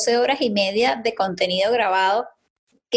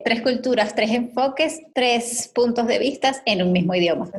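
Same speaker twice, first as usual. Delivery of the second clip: sensual voice. Pretend. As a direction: purr it like a seductive announcer. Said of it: "con tu voz sensual". (voz sensual de locutora)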